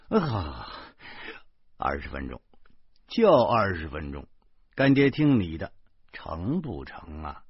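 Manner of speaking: mild, resigned pleading. Acted. Godfather begs the little girl for twenty minutes, mildly pleading. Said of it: "我央求着说".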